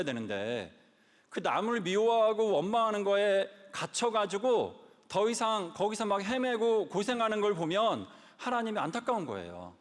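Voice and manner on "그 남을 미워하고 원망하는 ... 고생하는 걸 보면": forceful preaching. Real, not acted.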